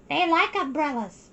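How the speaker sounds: put-on high little-girl voice, eager; a small girl stating a fact, pitched high; young girl's high chirp; little Mei. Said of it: "Mei said".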